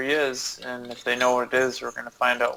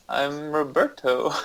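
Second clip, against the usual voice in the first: laughing; slower than usual. Shown as a demonstration. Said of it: "In orc voice".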